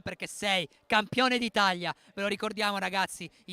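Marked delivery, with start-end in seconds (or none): 0.0-1.9 loud, drawn-out champion call; triumphant proclamation. Real, not acted. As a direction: stretch it out loudly in celebration. Celebra il campione in telecronaca. (proclamazione trionfale, scandita a gran voce)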